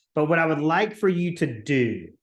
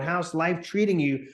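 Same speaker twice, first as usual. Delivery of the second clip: upbeat friendly check-in with a lift on treating; cheerful caller asking how life's treating them; energetic, enthusiastic. Shown as a demonstration. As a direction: sound genuinely glad to ask. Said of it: "with a great deal of energy and enthusiasm".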